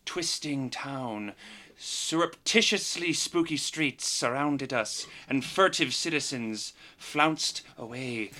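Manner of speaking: dramatic recap narration; previously on recap. Acted. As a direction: tell it like an epic storyteller. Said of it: "Give it to us, Garrett".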